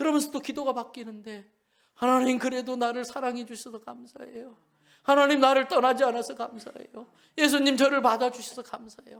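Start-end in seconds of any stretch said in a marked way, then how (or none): 1.9-9.2 louder, put-on tearful, grateful crying. Retelling a child's changed prayer to God, acting out a crying prayer. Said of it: "막 울면서 기도하는 거예요".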